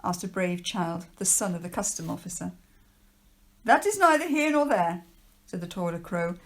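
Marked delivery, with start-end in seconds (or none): 3.6-5.0 higher, louder, fast stern official warning. Acted. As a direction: lecture the children like a pompous official. Trapwood dismisses the question.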